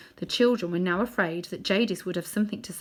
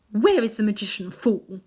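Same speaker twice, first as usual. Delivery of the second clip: imperious queen; 2 semitones higher, 5 dB louder than usual. Acted. Queen demands.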